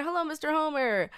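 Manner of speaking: a hint of a put-on Indian accent; mimicked Indian accent. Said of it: "would always mimic the accent and say".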